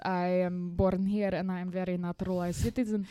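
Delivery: lightly played-up Eastern European accent. Accused spy insists on being a citizen, mock Eastern European accent. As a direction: deny it in a slightly thickened Eastern European accent. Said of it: "legit Eastern European accent".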